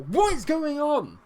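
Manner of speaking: high, loud, slow cry of disbelief; exasperated shout. Real, not acted. Gamer yelling at his struggling team, high and loud. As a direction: throw the question at the screen.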